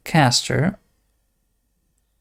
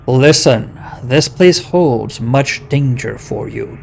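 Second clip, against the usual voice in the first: slow, louder boulder-like voice; creaking stone voice; 4 dB louder than usual. Acted. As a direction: speak like grinding rocks. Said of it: "in a creaking voice".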